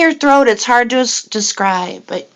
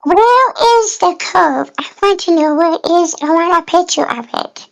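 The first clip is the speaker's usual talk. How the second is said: mock innocent cartoon voice; 2 semitones higher than usual. Friend tries the cartoon voice asking about the curve. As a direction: play a sweet little questioner, lightly. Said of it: "talk to the next new person in that voice".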